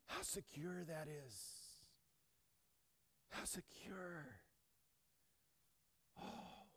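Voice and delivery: very soft, breathed-out wonder; hushed awe. Real, not acted. Pastor marveling at love that never changes, hushed awe. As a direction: marvel almost in a whisper.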